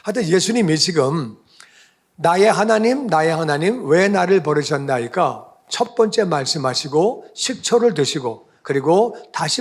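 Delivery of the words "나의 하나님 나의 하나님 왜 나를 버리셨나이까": crying out. Retold or imitated. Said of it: "이것은 사람 들으라고".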